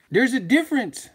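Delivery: very high, loud mock English voice; hammed-up British accent. Showing off to a YouTuber, very high, loud mock British accent. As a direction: squeal it out like a posh Brit. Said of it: "I'm bilingual".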